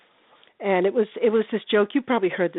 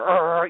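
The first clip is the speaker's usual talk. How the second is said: dog growl; 4 semitones lower than usual. Retold or imitated. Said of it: "And then the dog is there".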